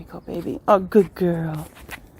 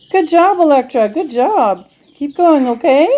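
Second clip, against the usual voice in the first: talking to a dog; 5 semitones higher, 7 dB louder than usual. Real, not acted. Praising dog.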